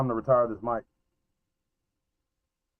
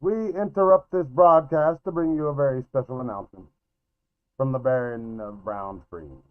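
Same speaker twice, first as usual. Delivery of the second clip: put-on old radio announcer. Mock broadcast interruption.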